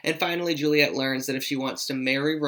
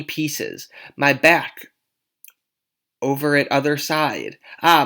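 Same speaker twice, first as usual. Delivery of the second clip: groaning nurse; 5 dB louder than usual. Acted. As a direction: moan about head and back. Nurse groans about aches.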